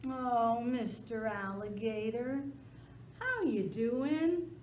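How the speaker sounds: high, slow wheedling whine; butter him up with a whine; sly dog whining up at alligator. Acted. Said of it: "he started whining".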